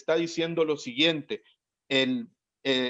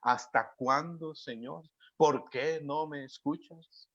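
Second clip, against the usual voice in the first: quiet fearful plea; 3 semitones lower, 7 dB quieter than usual. Retold or imitated. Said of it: "a la de los discípulos en este momento".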